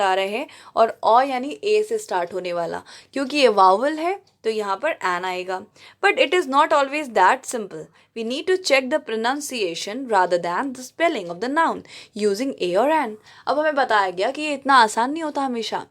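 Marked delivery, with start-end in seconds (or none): 6.0-13.1 slow, careful English read-aloud; textbook reading. Acted. Teacher reads the grammar book to her class, slow. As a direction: read the rule out word by word.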